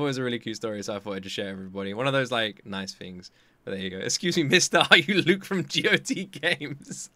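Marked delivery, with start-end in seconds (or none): 4.0-7.1 mock little girl.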